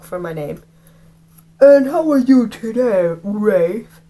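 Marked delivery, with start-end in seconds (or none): 1.6-4.0 sugary teacher. Acted. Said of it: "smiling like there was cookies".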